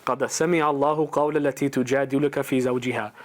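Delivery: quick, flowing recited chant; Quran recitation. Shown as a demonstration. Preacher reciting the verse about the arguing wife, fast chant. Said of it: "the ayat I wanna read to you".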